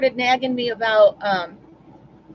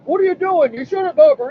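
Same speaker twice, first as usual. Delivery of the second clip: loud, raised-pitch hammed-up scolding; mock yelling brother; 6 semitones higher, 7 dB louder than usual. Brother yelling over the hose hookup, loud mock scolding. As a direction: imitate a brother yelling a telling-off. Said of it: "get here and yell at me".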